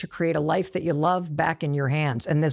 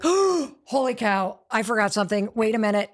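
surprised; 2 semitones higher than usual. Retold or imitated. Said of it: "be like".

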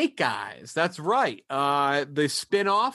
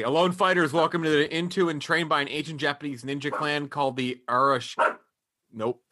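fast read. Real, not acted. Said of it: "I'm gonna read this really quickly".

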